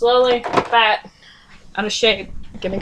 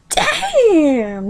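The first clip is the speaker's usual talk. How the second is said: drawn-out, higher-pitched inward curse; 8 semitones higher than usual. A narrator's reading. Yuzak cursing in his mind, inward exclamation. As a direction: curse to yourself in thought. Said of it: "Yuzak cursed in his mind".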